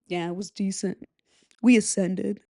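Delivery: flat deadpan quote; bored, even delivery; monotone voice. Retold or imitated. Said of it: "monotone voice".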